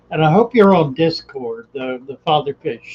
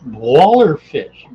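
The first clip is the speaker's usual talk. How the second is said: slow, louder drawn-out name; talking funny; 6 dB louder, slower than usual. Pretend. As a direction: drag out the name playfully. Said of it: "talking funny".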